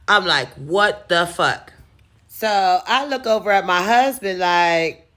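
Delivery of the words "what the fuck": drawn-out stunned question; slow disbelief. Retold or imitated. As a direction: let each word sink in. Disbelief at ten day removal.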